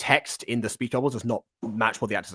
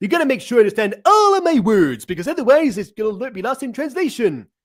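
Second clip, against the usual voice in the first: loud, very high, goofy, silly put-on voice; 11 semitones higher, 5 dB louder than usual. Speaker explaining how to do character voices, demonstrating a silly voice. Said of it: "a silly voice like this".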